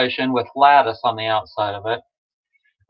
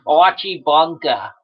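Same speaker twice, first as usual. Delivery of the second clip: Archie Bunker. Retold or imitated. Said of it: "reminds me of Archie Bunker".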